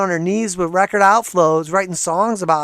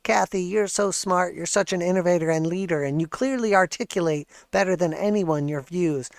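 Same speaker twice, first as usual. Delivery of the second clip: mock fawning fan; 4 dB quieter than usual. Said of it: "the most culty comment section".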